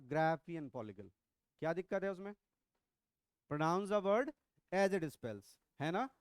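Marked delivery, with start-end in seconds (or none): 0.1-1.1 Graafian slowly drawn out as GRAA-fian; stretched pronunciation. Shown as a demonstration. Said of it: "थोड़ा सा खींच दो ना".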